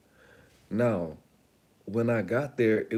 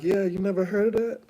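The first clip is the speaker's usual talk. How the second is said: woman's voice, a touch higher; 9 semitones higher, 4 dB louder than usual. Retold or imitated. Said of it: "she was like".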